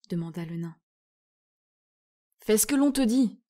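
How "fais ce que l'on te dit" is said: louder, higher stern scolding; growling rebuke. Acted. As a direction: put the dwarf in his place. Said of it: "gronda Ouragan".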